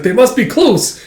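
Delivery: high, loud cry of alarm; alarmed shout. Retold or imitated. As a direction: call out the danger to the others. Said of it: "he's like".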